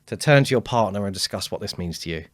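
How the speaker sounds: confident presenter giving the room instructions; bold, strong opening. Acted. Presenter setting a crowd a one-minute task, bold and strong. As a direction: start loud and firm to command the audience. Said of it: "I will come on bold, strong".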